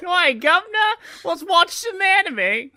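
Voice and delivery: high, loud, slow mock Cockney; bad Cockney accent. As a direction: ham up a terrible British accent. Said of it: "fake a British accent".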